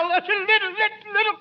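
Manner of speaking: rising pre-sneeze stammer; about to sneeze. Acted. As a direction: build up to a sneeze. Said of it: "Did you hear Costello sneeze?".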